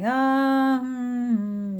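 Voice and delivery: long, high, drawn-out um; doubtful hesitation. Retold or imitated. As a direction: stretch it out, unconvinced. Doubtful reaction to clients' suggested names.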